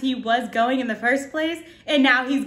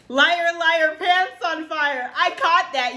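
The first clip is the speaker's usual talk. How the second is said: higher-pitched, triumphant call; excited recognition; 5 semitones higher than usual. Real, not acted. Listener who caught the rapper's wordplay, excited recognition. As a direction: crow it like you just cracked the lyric. Proud of catching a lyric.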